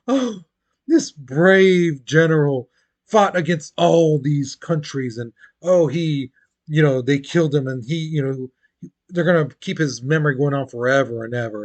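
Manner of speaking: gushing, mildly dramatic tribute; mock awe. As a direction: lightly play an adoring admirer honouring a hero. Voicing admirers of a martyr.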